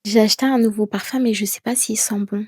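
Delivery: quick, doubtful trailing off; unsure statement. Shown as a demonstration. Teacher shows an uncertain sentence about her new perfume, doubtful. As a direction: sound like you doubt yourself. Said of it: "finir tes phrases avec certitude".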